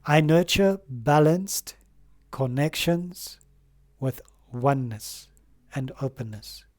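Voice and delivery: slow, measured affirmation with pauses between phrases. Shown as a demonstration. Tarot reader leading viewers in an affirmation, slow and measured. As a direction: recite it so viewers can repeat after you. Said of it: "Are you ready? One, two, three".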